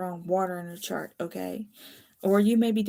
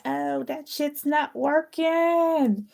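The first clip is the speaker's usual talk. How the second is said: higher, louder, slow put-on whine peaking in a shrieked "Ew"; mock baffled player; 8 semitones higher, 10 dB louder, slower than usual. Reader voicing a foiled manipulator, higher mock whine. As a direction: play a schemer whose game has failed. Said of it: "they be like".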